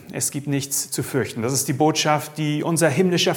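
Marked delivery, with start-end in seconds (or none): 0.1-1.4 "Es gibt nichts zu fürchten" repeated softer and gentler; soft echo. Shown as a demonstration. Preacher repeating comfort to listeners, softer the second time.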